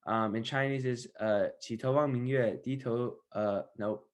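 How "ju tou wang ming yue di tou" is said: halting Mandarin with an English accent; foreigner speaking mandarin. Real, not acted. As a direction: recite Mandarin hesitantly, non-native. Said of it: "my Chinese is not that good".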